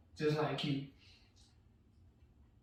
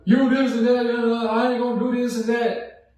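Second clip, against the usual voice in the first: louder mock yell at dad; retold yelling; 5 semitones higher, 5 dB louder than usual. Arguing with his dad over something small, a mock yell. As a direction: shout it back at your dad. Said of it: "We both yelling".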